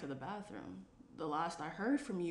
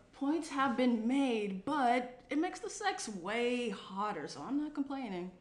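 slow, louder smug brag; smug drawl; 4 semitones higher, 5 dB louder than usual. Acted. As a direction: savour the bragging. Cheeky bragging about sex.

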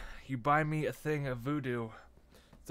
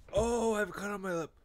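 alarmed cry; 8 semitones higher, 5 dB louder than usual. Real, not acted. Repeated, louder third time.

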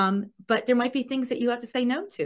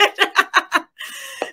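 quick, high laughing tag-on; 12 semitones higher, 8 dB louder than usual. Real, not acted. Wrapping up Don's story with a quick laugh.

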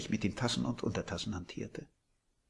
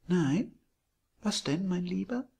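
put-on high, much louder gushing old landlady; sweet landlady; 9 semitones higher, 5 dB louder than usual. A narrator's reading. Landlady surprising Billy from behind, high and gushing. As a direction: coo it like a doting hostess.

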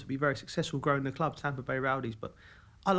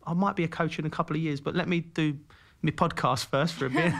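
sheepish reply; 3 semitones higher, 4 dB louder than usual. Retold or imitated. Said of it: "almost like a bit sheepish".

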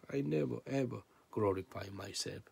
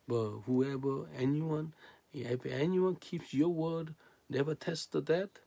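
acted disbelief; 6 semitones higher than usual. Acting out the challengers' disbelief.

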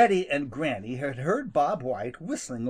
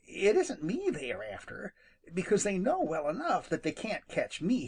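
lightly raised rabbit voice, puzzling aloud; Peter Rabbit voice; 7 semitones higher than usual. Acted. Rabbit muttering to himself, lightly higher.

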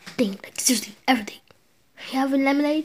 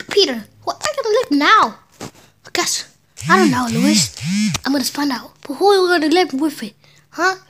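voicing cartoon family; 6 dB louder than usual. Acts Peter and Louis dialogue.

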